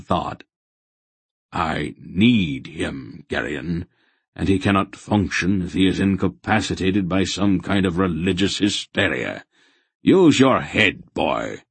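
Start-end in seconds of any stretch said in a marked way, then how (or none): 1.5-11.6 grandfather, stern. Acted. Grandfather scolding the boy to use his head, stern. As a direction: lecture the boy, ending on a firm order.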